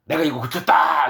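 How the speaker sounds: a mildly hammed-up brag; proud announcement, acted; mock boasting. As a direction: imitate someone showing off his deed. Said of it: "이렇게 자랑하는 게 아니라".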